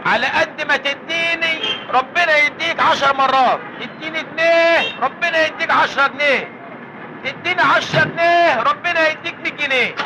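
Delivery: singsong beggar chant, asking for alms; lightly whined begging call; beggar's plea. Acted. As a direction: plead like a street beggar calling out.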